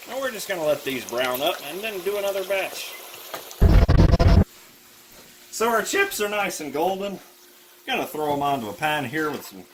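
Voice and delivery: deliberately bad Irish accent; worst Irish accent. Partner cooking chips for the video, in a bad Irish accent. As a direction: ham up a bad Irish brogue. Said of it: "with the worst Irish accent you've ever heard".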